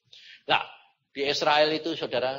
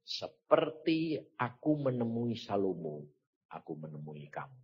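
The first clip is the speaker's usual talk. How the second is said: solemn divine promise; 6 semitones lower, 5 dB quieter than usual. Retold or imitated. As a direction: start measured, fade to a low hush. God's words to him, retold.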